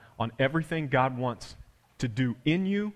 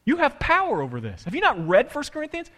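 raised-pitch incredulous questioning; God's challenge; 6 semitones higher than usual. Retold or imitated. Preacher voicing God confronting his paralysis, incredulous challenge. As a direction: challenge him like a baffled father. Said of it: "He looks down at my life and he goes".

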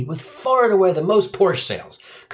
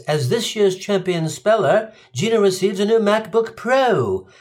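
proper British; 6 semitones higher than usual. Retold or imitated. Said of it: "judge congratulates Gino and says".

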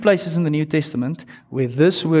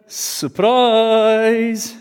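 a higher, louder burst of surprise; excited surprise; 8 semitones higher, 3 dB louder than usual. Retold or imitated. The angel telling Mary grace is free, excited surprise. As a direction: throw the gift at her. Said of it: "that's what he starts with".

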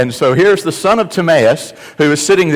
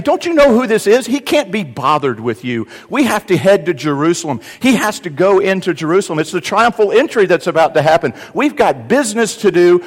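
dismissive scolding; 6 semitones higher than usual. Retold or imitated. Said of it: "Basically, they're saying".

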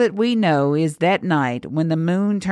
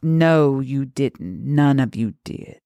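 scoffing; 2 semitones lower than usual. Acted. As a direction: scoff it, dropping in pitch. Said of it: "and she scoffed".

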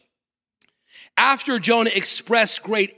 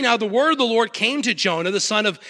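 lower, measured Bible reading voice; scripture reading; 3 semitones lower than usual. Acted. Pastor reads scripture passage.

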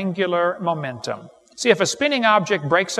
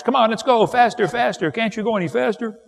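high, excited mock kid yelling; kids screaming; 5 semitones higher than usual. Kids on a merry-go-round yelling at the football players, high and excited. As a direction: egg the players on like thrilled kids. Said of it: "They're screaming at the football players".

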